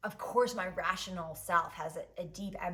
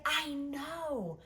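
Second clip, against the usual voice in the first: Biddy answering; 7 semitones higher than usual. Retold or imitated. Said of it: "And she's like".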